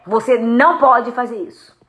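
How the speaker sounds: firm, unambiguous no; firm prohibition. Shown as a demonstration. Parent correcting a child, firm. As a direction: state the ban with no softening. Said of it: "características da sua voz que passam um sentido que absolutamente é".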